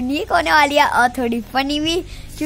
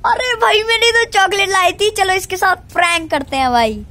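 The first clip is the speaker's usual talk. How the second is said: excited idea; 5 semitones higher than usual. Retold or imitated. Recalls his prank idea.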